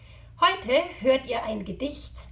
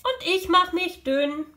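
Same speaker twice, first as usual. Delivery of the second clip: high, thinned-down voice; thin little voice; 7 semitones higher, 3 dB louder than usual. Acted. Animal answering by making itself thin, high little voice. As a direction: squeeze yourself thin on DÜN.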